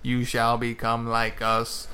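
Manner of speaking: slow, light hint of a robotic Cyber Leader; drawn-out mock Cyber Leader menace, only hinted; lightly voiced Cyber Leader. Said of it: "that such iconic voice of".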